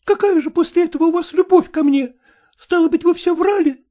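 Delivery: lightly voiced young woman, hurt reproach; a hint of a wronged woman demanding answers; reproachful young woman. Катерина reproaches Мохнатов. (упрёк обиженной молодой женщины)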